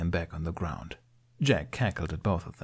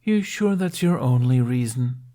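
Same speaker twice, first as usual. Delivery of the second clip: smirking; 4 semitones higher, 5 dB louder than usual. A narrator's reading. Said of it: "Jack smirked".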